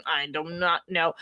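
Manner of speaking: real teary catch, trailing off; voice catching in tears. Real, not acted. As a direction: hold back a sob as you say it. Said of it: "I'm gonna be crying later".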